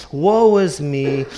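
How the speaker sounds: mild mock moping; mock self-pity. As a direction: mimic someone fishing for compliments. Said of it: "woe is me" type of mentality".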